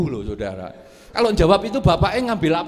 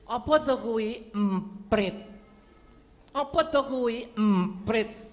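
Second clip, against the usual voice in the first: put-on old father asking; 6 semitones higher, slower than usual. Old father asks repeatedly.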